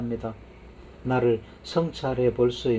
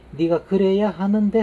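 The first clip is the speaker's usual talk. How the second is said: mock insistence, higher and louder; 당위적 불만; 8 semitones higher, 5 dB louder than usual. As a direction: voice a demanding inner thought, pitched up. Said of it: "하는 생각을 버려라는". (당위를 내세우며 높고 크게 따지는 척)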